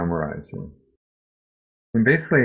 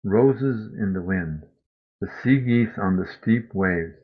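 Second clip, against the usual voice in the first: measured, reflective poetry reading; gentle reading of a grief poem. Acted. Reads a Mary Oliver poem.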